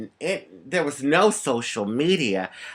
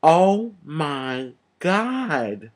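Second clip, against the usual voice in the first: mock shock; much slower than usual. Fortune teller amazed by the child's palm. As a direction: blurt it out amazed. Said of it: "she pulls my palm closer".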